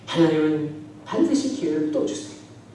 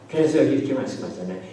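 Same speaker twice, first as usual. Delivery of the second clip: normal talking voice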